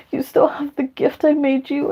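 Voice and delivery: high, soft, amazed; amazed to hear her friend kept the gift; touched surprise. Retold or imitated.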